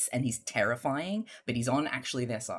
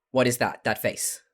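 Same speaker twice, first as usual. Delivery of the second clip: put-on Californian accent; 4 dB louder than usual. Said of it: "unprepared Gabriel".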